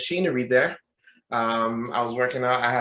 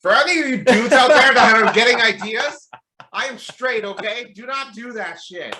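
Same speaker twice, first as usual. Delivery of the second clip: much higher, loud at first then easing; mock stern warning; 9 semitones higher, 7 dB louder than usual. Gym storyteller warns dudes getting ideas, mock stern. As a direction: playfully warn off imagined admirers, high-pitched.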